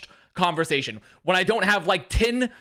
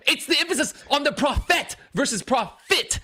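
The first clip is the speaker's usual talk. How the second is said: mock pedantic fan; 9 semitones higher than usual. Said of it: "They're like".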